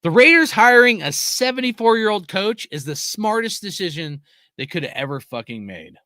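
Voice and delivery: loud, high sarcastic praise; mock the hire with fake praise; over-the-top sarcastic announcement; sarcasm. Sarcastic rant about old coach.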